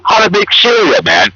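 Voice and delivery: loose, rowdy bro character talking to the camera; a sports bro cartoon host, lightly voiced. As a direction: ham up a sports-talk host from the Bay. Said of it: "So I'll do the voice for the guy".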